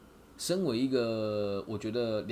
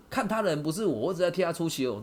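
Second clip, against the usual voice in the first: imitated defiant retort; 7 semitones higher, 5 dB louder than usual. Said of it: "他说".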